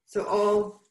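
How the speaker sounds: muffled behind a mask; speaking through a surgical mask; through a face mask. Real, not acted. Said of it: "make sure you can hear me through the mask".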